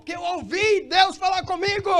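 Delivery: very loud, high-pitched preaching yell; exultant shout. Acted. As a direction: shout it as a believer bursting with news. Acts believer shouting his reason. (grito exaltado, bem agudo)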